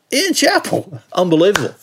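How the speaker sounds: put-on squeaky starstruck teen voice, way up high; voice jumps an octave. Telling a podcast host about meeting his hero, voice cracks up high. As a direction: gush like an awestruck fifteen-year-old. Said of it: "my voice went up an octave to being fifteen again".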